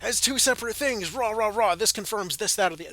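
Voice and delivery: mock outrage. Imitating upset fans freaking out over menus, mock outrage. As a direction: mimic fans freaking out, hammed-up. Mimics people freaking out online.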